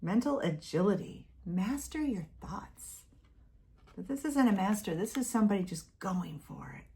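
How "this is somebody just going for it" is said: breathy aside whisper; hushed aside. Real, not acted. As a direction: drop to a whisper for this line.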